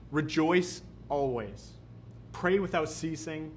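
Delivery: slow, solemn reading of the verse; scripture reading. Acted. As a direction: lay each phrase down slowly, reverently. Reads the scripture verse aloud.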